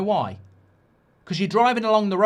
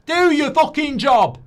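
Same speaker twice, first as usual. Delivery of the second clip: furious slow shout, higher and louder; angry shout; 7 semitones higher, 7 dB louder, slower than usual. Real, not acted. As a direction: bark each word at the staff. Ranting at the staff.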